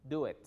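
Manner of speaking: "it" opened to "et"; corrected pronunciation. Shown as a demonstration. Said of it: "la pronunciación más similar es et".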